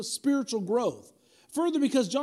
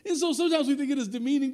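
laughing through the words; 4 semitones higher, 3 dB louder, faster than usual. Real, not acted. Preacher laughing to the church after his dad story. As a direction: still chuckling at the joke.

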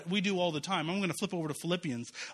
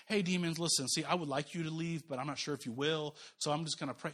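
mock timid hedging; 4 semitones lower, 7 dB quieter than usual. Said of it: "He didn't say".

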